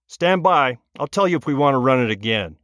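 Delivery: into a microphone. Acted. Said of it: "picks up a microphone and says".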